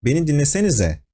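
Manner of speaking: a teacher losing patience, snapping Beni dinlesenize fast; angry teacher. Shown as a demonstration. A teacher scolding a chattering class, mildly angry. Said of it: "you can maybe hear the anger tone".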